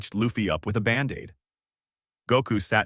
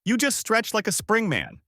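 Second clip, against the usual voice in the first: much higher, amazed shout; excited yell; 11 semitones higher than usual. Acted. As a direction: shout in astonishment. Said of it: "Goku yelled out".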